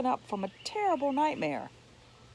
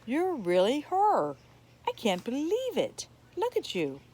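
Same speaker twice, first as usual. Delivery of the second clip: astonished wonder; 5 semitones higher than usual. Acted. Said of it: "the woman said in astonishment".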